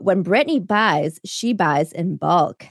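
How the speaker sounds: weak attempt at a London accent; a failed London accent, slow. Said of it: "trying to do a London accent, but I can't".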